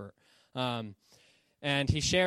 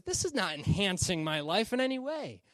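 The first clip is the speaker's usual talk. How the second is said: higher, acted frustration; frustrated; 5 semitones higher than usual. Frustrated passenger complaining about the parachute, acted annoyance. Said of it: "he starts to get frustrated".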